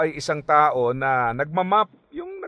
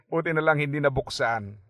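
quick, amused echo with a laugh; laughing repeat. Shown as a demonstration. Preacher echoing the friend's relief, chuckling. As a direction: toss the line off laughing.

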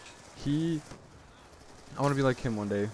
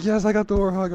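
loud, high triumphant yell; pumped; 10 semitones higher, 10 dB louder than usual. Retold or imitated. Gamer retelling his first Warthog, loud excited cheer. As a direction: shout it like you just earned the big killstreak. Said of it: "I was so pumped".

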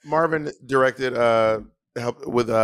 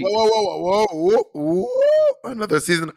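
excited stop; 8 semitones higher than usual. Real, not acted. Interrupting a friend's story with a high excited whoa. Cuts in over news.

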